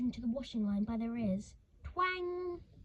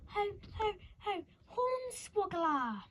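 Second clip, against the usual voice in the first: cruel cackle; 8 semitones higher, slower than usual. Acted. Curdle gloating over screaming orphans.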